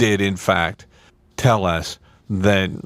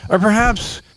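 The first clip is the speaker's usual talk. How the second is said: ad read. Acted. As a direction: sell it like a radio ad. Mock ad read for the studio.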